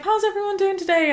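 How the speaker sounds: high, stretched-out stage greeting; high, projected crowd call; drag queen hosting. Retold or imitated. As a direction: imitate a performer greeting her audience. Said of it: "queen goes up and does her show".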